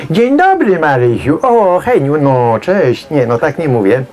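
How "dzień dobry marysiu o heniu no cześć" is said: mock spirit voice. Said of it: "nie będę mówił jego głosem".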